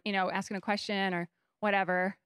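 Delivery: usual speaking voice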